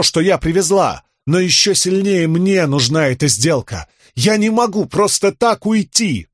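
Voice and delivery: высоко и торжественно взывать; взывать к богу, медленно и громко; громкий призыв. A narrator's reading. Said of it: "громко провозгласила". (Рисн взывает к чудищу, высоко и медленно)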